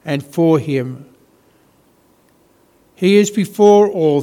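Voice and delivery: measured, deliberate Bible reading to a congregation; slow scripture reading. Real, not acted. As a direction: read slowly, pausing after each phrase. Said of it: "I'm going to read again slowly".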